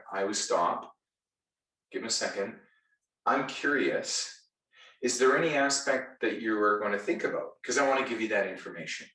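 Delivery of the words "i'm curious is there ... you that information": curious, helpful. Shown as a demonstration. Salesperson answering a hesitant customer, gently curious. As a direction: ask like you genuinely want to help. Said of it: "Say it pretty much exactly like that".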